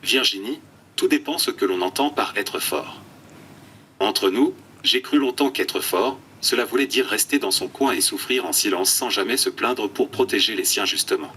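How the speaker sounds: computer text-to-speech voice; flat synthetic speech from an eye-tracking tablet. Real, not acted. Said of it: "une voix de synthèse". (voix de synthèse robotique)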